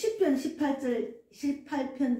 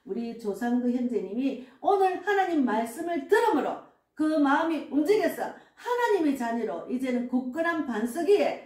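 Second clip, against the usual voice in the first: prayer voice. Acted. Pastor leads spoken prayer.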